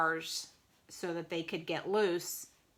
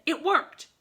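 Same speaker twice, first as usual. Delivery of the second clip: higher, louder happy surprise; pleased exclamation; 9 semitones higher, 7 dB louder than usual. A narrator's reading. Mister Snake sees the plan work, pleased exclamation. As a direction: exclaim it as a small triumph.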